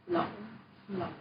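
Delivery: "Lỗi" with the tone going down and up; teacher models the falling-rising tone on "Lỗi"; dipping tone. Shown as a demonstration. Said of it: "down and up".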